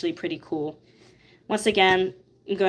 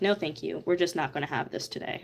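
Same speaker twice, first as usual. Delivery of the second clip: stern brain voice; 2 semitones lower, 6 dB quieter than usual. Retold or imitated. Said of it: "my brain's just like".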